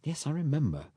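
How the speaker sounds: distracted, half-listening reply; absently. A narrator's reading. Rose answers Allnut while lost in thought, absent. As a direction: say it with your mind elsewhere. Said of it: "said Rose absently".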